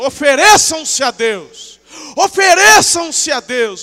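slow, high, shouted command; forceful exhortation. Acted. Preacher delivering God's command to the congregation, slow shouted exhortation. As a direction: proclaim it loudly, stretching each word.

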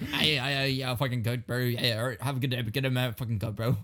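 babbling Australian patter; mock Australian accent. Shown as a demonstration. Trying friend's Australian recipe, mock accent. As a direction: rattle off fake Australian, insult last. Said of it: "And then end it with".

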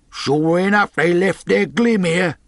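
high, loud shout down; calling from window. A narrator's reading. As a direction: holler the find to the gang. Fellow calls from the window.

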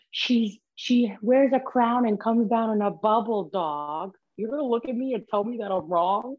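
slow, high, incredulous rant; drawn-out disbelieving street rant; quoting a clip guy. Retold or imitated. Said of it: "that clip of that guy that goes".

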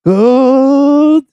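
high, full-throated shout; big rallying yell. Retold or imitated. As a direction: bellow the order to hold. Braveheart battle cry, louder take.

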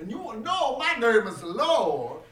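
mildly declaimed, drawn-out film line; movie-quote impression. Trading film impressions with friends, theatrical.

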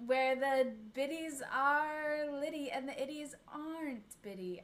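shaky, half-giggled attempt at a British accent; a nervous first go at a British podcast host accent. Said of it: "I don't think I can do a British accent, but I'll try".

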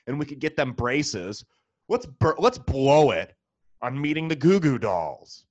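lightly voiced eager parent talking to a partner; mock spouse. A parent urging their spouse to splurge, a touch giddy. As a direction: play the giddy parent blowing the money. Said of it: "Who spends that money?".

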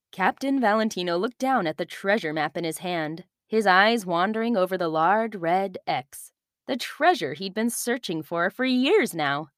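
put-on calm storyteller reading to children; story narration. A narrator's reading. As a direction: tell it like a bedtime story. Narration continues.

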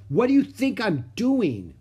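loud, high, indignant retort. Acted. Ramona shouts back at her parents, loud and indignant. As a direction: fire it back at him. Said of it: "Ramona raised her voice".

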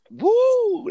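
very high, loud party whoop; frat bro whoop. Real, not acted. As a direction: cheer like a frat guy. Whoop at Making a Murderer.

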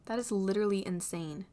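laughing. Acted. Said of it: "Harry laughs".

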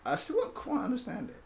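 high, breaking into laughter; laughing. Real, not acted. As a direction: say it through a laugh. Laughing over team name joke.

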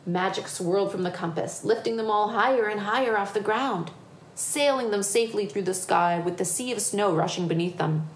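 lively picture-book reading; story narration. A narrator's reading. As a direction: tell it to children with building excitement. Reads picture book aloud.

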